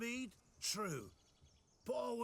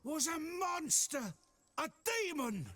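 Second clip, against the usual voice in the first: insistent protest; 5 semitones higher, 4 dB louder than usual. Acted. Drunk insists to nobleman.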